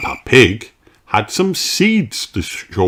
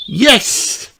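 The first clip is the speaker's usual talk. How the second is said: Peppa. A narrator's reading. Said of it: "nods Peppa".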